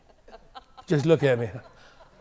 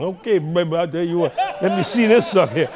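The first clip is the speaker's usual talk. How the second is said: swaggering lean; 4 dB louder than usual. Acted. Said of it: "He had his lean on".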